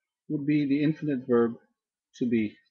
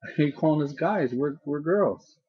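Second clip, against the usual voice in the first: lightly voiced puzzled student, raised pitch; a hint of a protesting schoolgirl, higher; questioning student; 4 semitones higher than usual. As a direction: imitate a pupil objecting to the teacher. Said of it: "one of them raised their hand and said".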